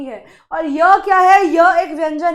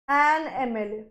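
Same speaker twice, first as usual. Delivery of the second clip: much softer, lower "an एम एल ए"; soft confirmation; 6 semitones lower, 8 dB quieter, slower than usual. Shown as a demonstration. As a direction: quietly settle the correct answer. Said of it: "इसीलिए ये होगा an एम एल ए".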